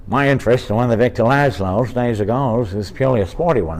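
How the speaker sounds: lightly voiced Bogart line; closer Bogart impression. Shown as a demonstration. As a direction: try the Bogart voice again, nearer the mark. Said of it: "And then finally I was like".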